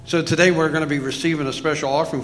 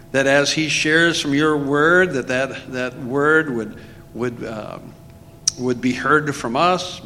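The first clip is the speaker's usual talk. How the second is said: public prayer. Real, not acted. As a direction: lead the congregation in prayer for a friend. Leads prayer for the preacher.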